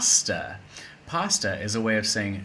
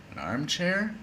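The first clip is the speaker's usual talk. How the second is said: surprised; 7 semitones higher, 3 dB quieter than usual. Real, not acted. Mocking the silly sentence.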